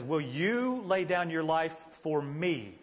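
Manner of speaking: "you" drawn out in a slow question; stress on "you". Retold or imitated. Jesus questions Peter's offer to die for him, "you" stressed. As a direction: lean slowly on "you", letting the rest fall away. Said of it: "the emphasis in his statement".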